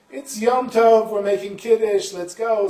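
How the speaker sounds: loud, high, emphatic overriding voice; impatient insistence. Acted. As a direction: push on loudly, stretching the first words. Man impatiently overrides the boy.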